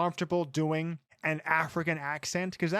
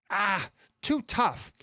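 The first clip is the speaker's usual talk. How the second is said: mock lazy writer; slower than usual. Mocking lazy screenwriter.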